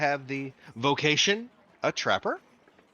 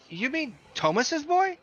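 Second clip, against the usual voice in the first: put-on higher, slow old lady asking; old woman's voice; 13 semitones higher, slower than usual. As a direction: peer up and ask gently like an old clerk. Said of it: "she looks at you and goes".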